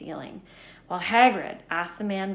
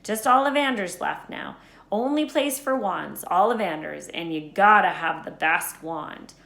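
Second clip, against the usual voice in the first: lightly voiced Hagrid; 2 semitones higher, 6 dB louder than usual. Hagrid explaining Quidditch to Harry, lightly voiced. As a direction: explain wizard sport with eager bluster.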